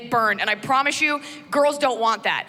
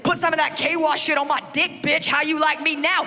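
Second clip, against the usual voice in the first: crude subtitle voice; 4 semitones higher than usual. Retold or imitated. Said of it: "responds in kind".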